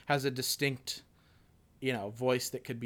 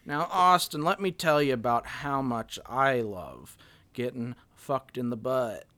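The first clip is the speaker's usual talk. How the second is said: Bill Clinton impression; 3 dB louder than usual. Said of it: "Oh, Bill Clinton".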